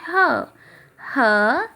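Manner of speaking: "ह" as a short breath-consonant sound; the sound of H, "ह", not its name; phonics letter sound. Shown as a demonstration. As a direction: say "ह" alone, twice, with a pause. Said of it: "एच की sound होती है".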